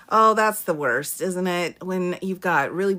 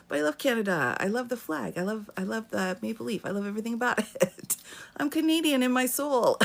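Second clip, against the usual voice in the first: softer, higher pleading imitation; imitated pleading; 4 semitones higher, 4 dB quieter, faster than usual. Retelling the heroine's plea to the embassy, mock pleading. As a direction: plead earnestly as a film heroine, half in fun.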